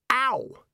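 high, sharp "ow"; pained yelp. A narrator's reading. Ponder yelps as his youth returns, pained. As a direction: yelp at a sudden pain.

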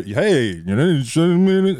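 lightly mocking put-on chatter, lifting in pitch; put-on public voice. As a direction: imitate someone putting on a public way of talking. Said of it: "even those people that you hear".

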